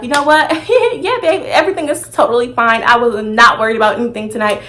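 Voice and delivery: breezy fake-casual reassurance; mock sweet and unbothered; fake nonchalance. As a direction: pretend everything is fine, airy. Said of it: "I played it off so smooth".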